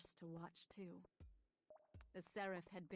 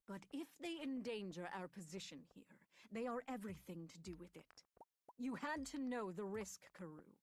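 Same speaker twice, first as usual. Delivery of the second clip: firm rebuke; 4 dB louder than usual. Acted. Iago argues back.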